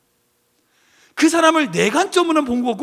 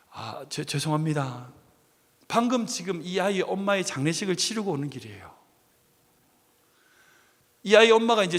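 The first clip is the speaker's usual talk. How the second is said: softer, subdued and heavy-hearted; grieving apology; 5 semitones lower, 6 dB quieter than usual. Retold or imitated. A newly widowed father explains himself to the passenger, subdued grief. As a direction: answer quietly like a widower in shock.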